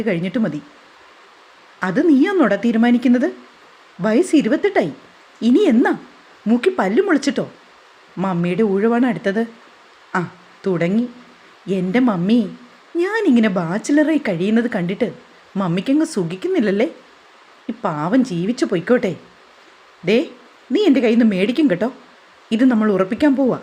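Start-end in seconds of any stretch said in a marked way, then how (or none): 1.8-7.5 scolding father. Acted. 20.0-21.9 mock threat. Mother threatens son.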